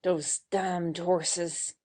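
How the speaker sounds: slow, low words forced through her teeth. Acted. Lily to her husband about his betting, through her teeth. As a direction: grit it out through clenched teeth. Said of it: "Through her teeth".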